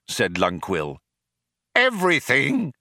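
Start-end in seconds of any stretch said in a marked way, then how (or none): 1.8-2.7 higher-pitched eager exclamation; eager chorus. A narrator's reading. Programmers prompt the computer together, eager chorus. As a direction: call it out as if in chorus. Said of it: "they said in chorus".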